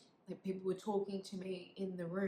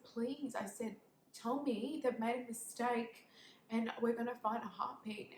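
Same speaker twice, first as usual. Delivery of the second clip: raised pitch, urgent appeal; retold pleading; 4 semitones higher than usual. Mother begging her midwife, retold pleading. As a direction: plead as if clinging to hope.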